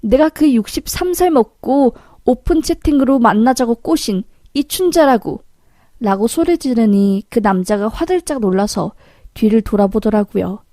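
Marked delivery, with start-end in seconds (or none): 0.0-5.4 brash, higher-pitched announcement of oneself; calling out loudly. Acted. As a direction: call someone out across the room. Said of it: "큰 소리로".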